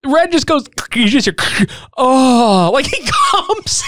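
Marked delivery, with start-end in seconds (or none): 2.0-3.8 mock orgasm moan. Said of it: "It sounds like he just orgasmed".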